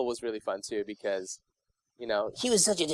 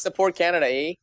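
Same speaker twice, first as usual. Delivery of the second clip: mock Canadian accent, pitched up; 5 semitones higher than usual. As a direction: tease with a hammed-up Canadian "eh". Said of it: "You'd be like".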